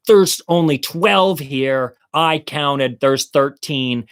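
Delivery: slow, emphatic re-enacted demand; retold demand. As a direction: call out the count insistently. Demand shouted while running after truck.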